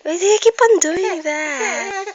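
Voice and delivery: mock scolding, cracking up; anger turning to laughter. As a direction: scold while trying not to laugh. Scolding baby while laughing.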